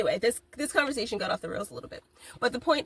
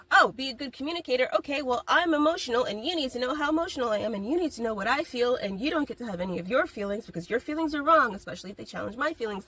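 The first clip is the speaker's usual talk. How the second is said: mock emotional person; 4 semitones higher than usual. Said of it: "So it's not just like".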